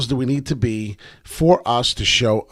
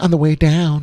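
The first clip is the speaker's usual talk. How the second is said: mock feminine-sounding voice, pitched higher; 4 semitones higher than usual. Repeating one's own earlier phrase: imitating own feminine-sounding voice. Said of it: "as I sounded very feminine, the way I just sounded".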